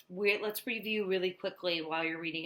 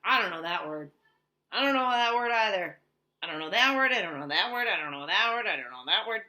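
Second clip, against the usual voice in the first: mock-frustrated child repeating louder; frustrated reader; 6 dB louder, faster than usual. Teacher acting a frustrated kid who can't read a word. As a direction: act out a stuck, fed-up little reader. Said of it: "you're frustrated and you're like".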